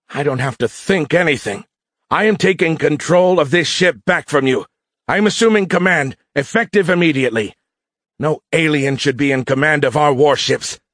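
put-on high, forceful voice of a cocky young usurper; arrogant mutinous cadet. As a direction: declare the takeover with high-pitched bluster. Mutinous cadet taking command.

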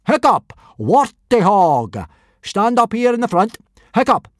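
loud, high barked instructions; yelling. A narrator's reading. Teacher assigning roles to pupils, yelling. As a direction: bellow the orders out like a drill. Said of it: "yelled Gobber".

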